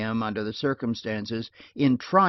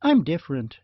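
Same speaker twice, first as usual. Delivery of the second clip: retorting; 4 semitones higher, 5 dB louder than usual. Acted. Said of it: "she retorted".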